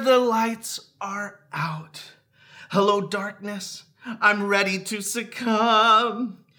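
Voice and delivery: slow, hushed then swelling lines; dramatic recitation. Acted. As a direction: build from stillness to drama. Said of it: "let's see if I can do this".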